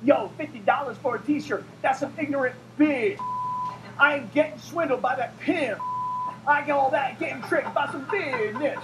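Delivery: lightly mimicked rapper, lyric half spoken; a hint of rap cadence, clumsily performed; a rapper. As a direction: recite it like an amateur doing rap. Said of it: "perform it for you right now".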